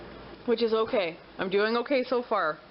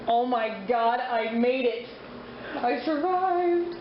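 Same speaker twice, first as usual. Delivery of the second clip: relieved laughter; much slower than usual. Real, not acted. End of week relief.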